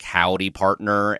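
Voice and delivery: slow mock Southern drawl; a hint of a cowboy twang; Southern accent. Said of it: "their handles are".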